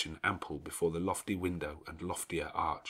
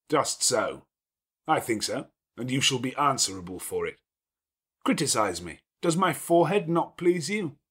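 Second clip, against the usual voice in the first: louder, commanding gentleman's voice; a lordly host giving orders at ease; gruff master of the house; 6 semitones higher, 4 dB louder than usual. Acted. Rochester demands criticism.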